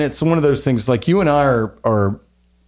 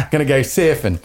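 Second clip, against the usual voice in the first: mock Australian. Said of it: "Go for it".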